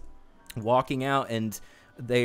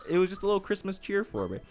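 laughing; 9 semitones higher, faster than usual. Real, not acted. Laughing wrap-up of story.

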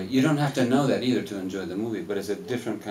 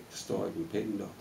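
laughing Spanish reply; 7 dB quieter than usual. Retold or imitated. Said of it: "and then I say".

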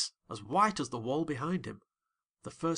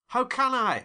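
frightened cry; 10 semitones higher, 6 dB louder than usual. A narrator's reading. Terrified narrator at window.

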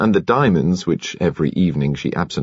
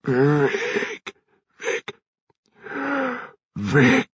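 stutter; 9 semitones higher, 4 dB quieter, much slower than usual. A narrator's reading. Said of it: "came a stutter".

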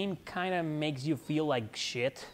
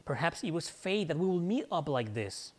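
put-on British accent; 2 semitones higher than usual. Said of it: "My so-called ridiculous British accent".

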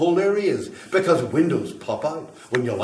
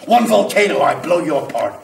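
louder and higher, swelling with megalomania; grandiose ranting; 4 semitones higher, 7 dB louder than usual. Acted. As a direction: rant like a prophet of fire. Grandiose fire rant escalating.

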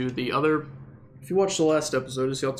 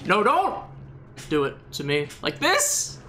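1 mock pleading; 5 semitones higher than usual. Mock hostage begging for mercy.

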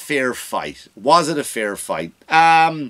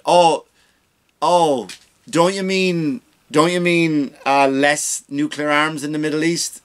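mock moderator; 3 semitones higher, slower than usual. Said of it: "the moderator went".

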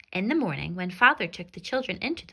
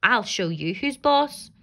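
slow, louder, menacing; slow threatening stepmother; 6 dB louder than usual. Acted. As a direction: drag out the threat, hard.

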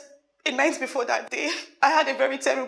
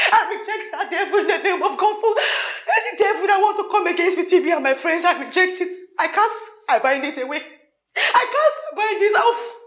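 casting out; 3 semitones higher than usual. Acted. Casting out the devil.

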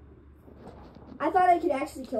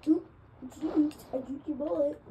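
mocking enemies; 4 semitones higher than usual. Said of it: "they always".

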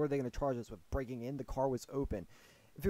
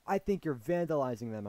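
mildly raised accusing voice; imitating angry man; 5 dB louder than usual. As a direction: accuse like an irritated man, lightly acted. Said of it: "this dude was mad".

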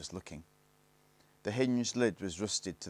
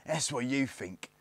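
sneering gang leader; 2 semitones higher than usual. Acted. Lone Ranger threatens Barney with torture, lightly sneering. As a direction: menace the captive, stretching key words.

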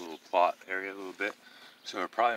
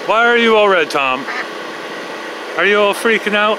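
pet talk voice; 10 dB louder than usual. Real, not acted. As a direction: squeal at the birds. Talking to the birds.

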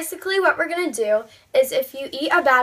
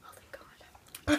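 slow breathy whisper of relief; relieved whisper; 10 dB quieter, much slower than usual. Real, not acted. Relief after safe bean.

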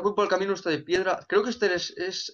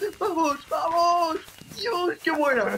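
celebrating; 10 semitones higher, slower than usual. Real, not acted. Celebrating his win.

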